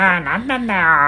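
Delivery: put-on limp, deflated old man. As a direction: sigh it out like a tired grandpa. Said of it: "気が抜けるような声".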